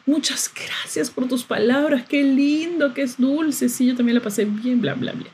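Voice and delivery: light, breathy mock of his polite message; mocking his reply. Reading his late text to viewers, mocking and breathy. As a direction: parody his sweet, empty words. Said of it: "Me responde dos días después".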